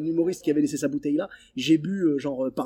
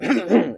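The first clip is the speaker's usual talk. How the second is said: quick cough; 3 semitones higher, 6 dB louder than usual. Shown as a demonstration. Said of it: "après tu fais genre".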